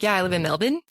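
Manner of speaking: Melbourne without the R, as "MEL-bin"; local pronunciation of Melbourne. Retold or imitated. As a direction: drop the R in Melbourne. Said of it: "They don't pronounce the R's".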